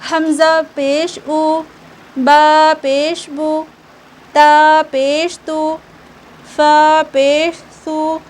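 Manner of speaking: "हमज़ा पेश ऊ, बा पेश बू, ता पेश तू, फ़ा पेश सू" slowly spelled out, clear oo endings; deliberate measured drill, ending each on "ऊ", "बू", "तू", "सू"; maroof reading drill. Shown as a demonstration. Teacher modelling pesh for pupils, slow measured spelling drill. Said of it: "इस तरीके से बिना खींचे मारूफ पढ़ना है".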